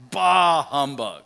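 put-on slow grumpy old miser; Scrooge voice. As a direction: spit it out like Scrooge. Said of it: "his tagline that he always says".

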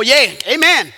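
mock congregational amen; imitating an approving churchgoer; eager agreement. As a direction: chime in with approving gusto. Congregation eagerly agreeing about others' sin.

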